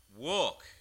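WALK as a firm falling command. Acted. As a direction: bark walk as an order. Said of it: "Then Peter said".

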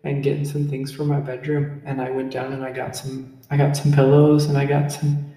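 calm, relaxed North Dakota accent. Shown as a demonstration. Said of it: "you just kinda say".

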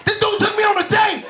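high-pitched shocked disbelief; shocked realization. Retold or imitated. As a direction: let the realization hit hard. Realizing it was a date.

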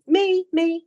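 high, loud eager volunteering. Retold or imitated. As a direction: shout it up like a keen kid.

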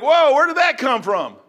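loud, high, slow "whoa"; startled disbelief. Retold or imitated. Church member to yelling pastor, loud astonished reaction. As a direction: re-enact being taken aback by an outburst. Acts stunned reply to pastor's outburst.

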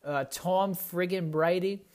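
put-on slow Boston accent, Tom friggin' Brady. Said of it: "I do that Boston accent every now and again".

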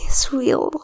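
hushed whisper. Real, not acted. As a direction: breathe it in awe. Hushed echo of co-host.

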